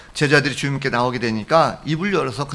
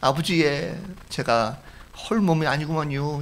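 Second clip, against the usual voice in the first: mild mock wailing, slightly raised pitch; retold tearful confession; 3 semitones higher than usual. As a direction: imitate a crying daughter, only lightly. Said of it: "엉엉 울면서".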